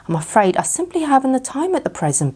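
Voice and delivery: a hint of a busy old owl. A narrator's reading. Owl politely declining Pooh, lightly voiced.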